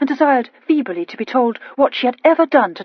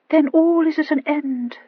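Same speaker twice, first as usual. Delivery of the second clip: fatalistic; 7 semitones higher than usual. A narrator's reading. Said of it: "said Lady Winwood fatalistically".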